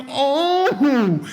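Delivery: high, loud shocked "oh"; shocked gasp. Retold or imitated. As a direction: breathe it out in shock. Reaction to the hit.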